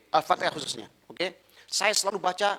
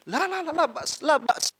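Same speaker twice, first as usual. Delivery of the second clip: eager Arab elder; 12 semitones higher than usual. Retold or imitated.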